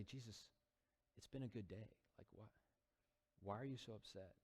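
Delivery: a hint of hushed bewildered friends; puzzled disciples. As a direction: ask it gently, baffled. Disciples puzzled by Jesus' sadness.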